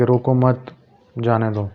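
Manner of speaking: "روکو مت" as one unit, then "جانے دو"; pause after مت. Shown as a demonstration. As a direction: run روکو straight into مت, pause, then let جانے دو fall away. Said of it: "میں اس کو دو طریقوں سے آپ کے سامنے بیان کروں گا".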